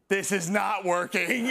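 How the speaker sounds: slow, deadpan defeat; lightly voiced fed-up cat owner. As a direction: say it slow like a beaten man. Desperate follow-up from the owner.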